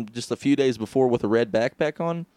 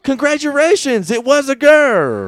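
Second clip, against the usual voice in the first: mock Chinese accent; 13 semitones higher, 8 dB louder than usual. Host imitating a Chinese doctor to the crew, high mock accent. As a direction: ham up a Chinese doctor's announcement, much higher. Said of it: "if a Chinese doctor was like".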